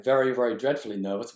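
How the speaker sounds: hurried jittery reading; rushed nervous read. Shown as a demonstration. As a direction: gabble it as if anxious. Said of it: "the repetition of the diction here".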